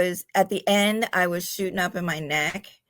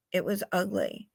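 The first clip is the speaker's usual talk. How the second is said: almost to herself; quiet heavy repeat; 6 dB quieter than usual. Real, not acted. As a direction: let it sink, much softer.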